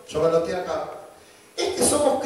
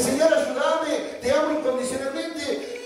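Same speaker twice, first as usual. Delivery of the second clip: mock pious prayer; 3 semitones higher than usual. Mocking showy Facebook prayer.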